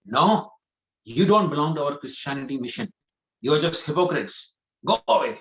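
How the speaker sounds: a touch of an angry doorkeeper, rising at the end; lightly acted refusal, building to go away. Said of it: "he gets very angry".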